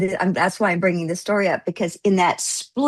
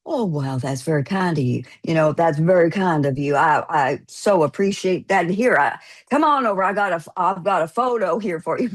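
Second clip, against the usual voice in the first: deflated; 2 semitones lower than usual. Retold or imitated. Angry guest flattered by a fan, suddenly deflated. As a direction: drop from bluster into bashful gratitude. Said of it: "totally deflates into".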